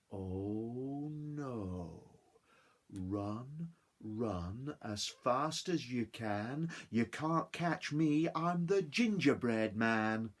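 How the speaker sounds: slow, teasing sing-song; cheeky gingerbread man. Acted. Gingerbread man taunting his chasers, slow teasing chant. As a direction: taunt them as you run.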